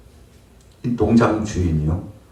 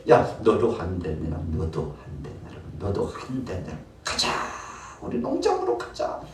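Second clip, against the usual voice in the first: calling out; 3 semitones lower, 4 dB quieter than usual. Acted. Jesus calls the workers.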